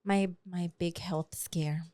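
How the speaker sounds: hushed, breathy whisper. Real, not acted. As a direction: whisper it like a dark secret. Dramatic reveal of the scare.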